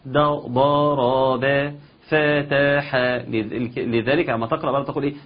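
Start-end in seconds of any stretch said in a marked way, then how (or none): 0.0-3.0 lightly chanted spelling drill; a hint of a spelling teacher. Teacher teaching a child to read, lightly chanted. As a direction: sing out the letters like a schoolteacher. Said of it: "بتقول له".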